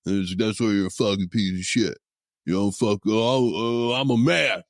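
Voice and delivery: lightly voiced macho sales guy, mocking; mimicking a boastful sales executive, mild mockery; mocking sales warrior. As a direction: ham up a self-styled warrior a little. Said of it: "And the guy answered back".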